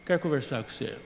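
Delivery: soft, low, conciliatory; humble apology. Retold or imitated. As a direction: apologise gently to the brother. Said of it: "eu disse".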